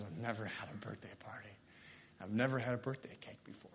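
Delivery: quiet, choked-up start that steadies; half-held tears, voice dropping away; tearful. Retold or imitated. Angie in tears at her first party, quietly choked. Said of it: "tears started streaming down her face".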